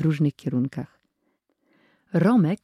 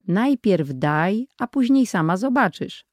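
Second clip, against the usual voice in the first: mysterious; 4 semitones higher than usual. Acted. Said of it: "odpowiedział tajemniczo".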